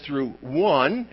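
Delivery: "one" set apart and weighted; stress on one. Shown as a demonstration. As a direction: land firmly on "one". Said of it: "emphasis on the, the, the numerical one".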